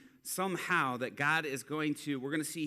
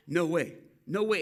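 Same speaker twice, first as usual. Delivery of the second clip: amazed disbelief; 3 semitones higher, 6 dB louder than usual. Retold or imitated. Guy amazed leg grew again.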